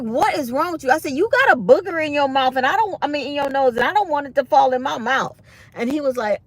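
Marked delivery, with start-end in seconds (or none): 0.0-0.9 higher-pitched imitation of an exasperated dentist. 1.1-5.4 loud, high-pitched re-enacted complaint; retold outburst.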